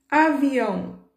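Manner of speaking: slow, stretched Avião; drawn-out example word. Shown as a demonstration. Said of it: "não tá no aumentativo".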